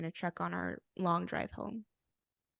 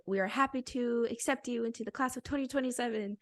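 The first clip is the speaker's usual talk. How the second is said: higher-pitched, lilting read-aloud; email read-out; 4 semitones higher than usual. Retold or imitated. Reading the acceptance email to friend, read-out voice. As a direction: read it out like good news.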